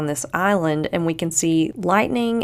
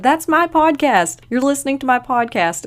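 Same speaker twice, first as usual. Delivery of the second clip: high-pitched, thrilled disbelief; floored; 8 semitones higher, 4 dB louder than usual. Retold or imitated. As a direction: exclaim it as an amazed, delighted discovery. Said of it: "I was just floored".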